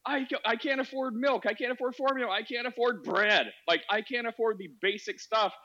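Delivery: high-pitched desperate plea; mimicking crying women. Host voicing Canadian women crying on Instagram, high pleading. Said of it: "women are crying on Instagram saying".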